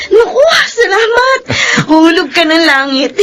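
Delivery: tearful joy. Acted. Vendor overjoyed at big payment.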